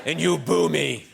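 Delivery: slow, hammed-up wounded pride; slowed mock-offended scolding; mock indignation. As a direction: scold the crowd in mock hurt.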